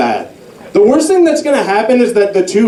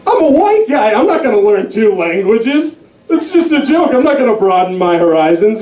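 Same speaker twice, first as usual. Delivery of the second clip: mock white guy; 4 semitones higher than usual. Voicing the coworker's mindset.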